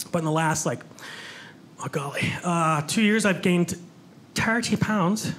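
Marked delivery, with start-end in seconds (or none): 4.3-5.3 lightly put-on Irish accent. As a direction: say it with an Irish lilt. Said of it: "my Irish accent".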